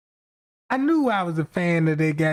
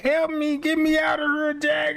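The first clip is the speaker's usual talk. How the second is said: high, desperate plea, raised pitch; tiny trapped voice begging to be let out; panicked cry for help; 9 semitones higher than usual. Pretend. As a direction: yell for rescue like you're trapped. Voices trapped inside, calling out.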